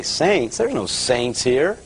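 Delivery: retold disbelief, drawing out the objection; incredulous. Young Catholic up in the balcony hearing "saints", incredulous.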